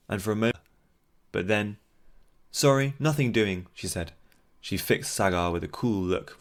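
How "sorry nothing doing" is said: breezy dismissive woman. Acted. Elran brushing Sagar off.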